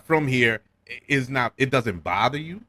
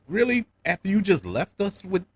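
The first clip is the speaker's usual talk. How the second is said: incredulous; 5 semitones higher than usual. Retold or imitated. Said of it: "And I'm like".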